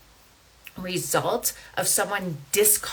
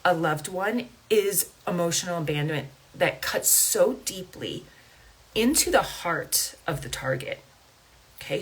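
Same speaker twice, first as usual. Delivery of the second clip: holding back tears. Real, not acted. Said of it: "I'm trying not to cry here".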